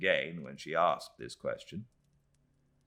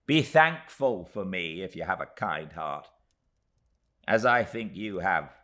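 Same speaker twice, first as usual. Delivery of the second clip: tiny Miss Moucher; 3 semitones higher, 7 dB louder than usual. Acted.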